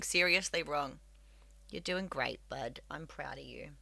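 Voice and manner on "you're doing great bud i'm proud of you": soft, low murmur to a pet; tender reassurance. Real, not acted. Reassuring the cat.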